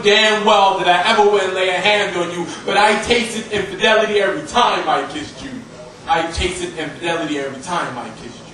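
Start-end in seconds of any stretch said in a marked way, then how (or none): 6.1-8.4 lower, softer repeat of the line; hushed echo. Acted. Poet confessing betrayal to a former lover, hushed. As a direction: drop it low and quiet, like an afterthought.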